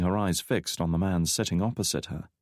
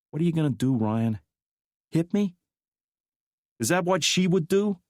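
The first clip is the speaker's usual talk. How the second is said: McKnight's cold accusation; 10 semitones higher than usual. A narrator's reading. McKnight daring Drake after his outburst, cold. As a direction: challenge him without fear.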